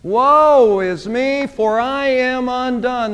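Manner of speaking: slow, stretched woe is me; slow grieving cry; drawn-out lament. Acted. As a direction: lament with the weight of ruin. Isaiah's lament repeated.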